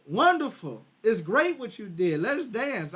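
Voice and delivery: gushing, happy greeting for her husband; mock cheerful wife. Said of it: "did she hug him and say".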